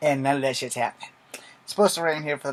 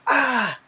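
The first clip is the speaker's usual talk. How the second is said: pained yelp; 10 semitones higher than usual. Pretend. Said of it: "can't fake pain".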